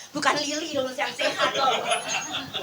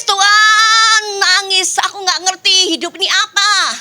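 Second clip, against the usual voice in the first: retold crying; 5 semitones higher than usual. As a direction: reenact a tearful plea, higher than usual. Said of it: "saya nangis".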